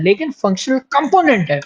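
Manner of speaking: "फंक्शनल कंपोनेंट" lift किया, ऊँची आवाज़ में ज़ोर देकर; "कंपोनेंट" पर ज़ोर डालो, फिर आवाज़ नीचे गिराओ; stress on functional component. Shown as a demonstration. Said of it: "इसी की ओर मैं जोर दे रहा हूँ". ("फंक्शनल कंपोनेंट" पर साफ़ ज़ोर, ऊँचे सुर में)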